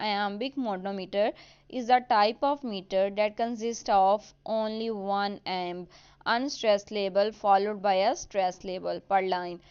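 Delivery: reading the definition out word by word; slow dictated definition. Acted. Teacher to students, dictating the definition slowly. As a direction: spell it out slowly for students to note down.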